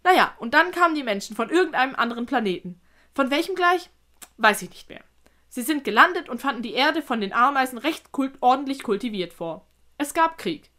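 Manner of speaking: lightly voiced spider telling old history; animated, lilting storyteller's delivery; storytelling spider. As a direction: recount it as an old tale.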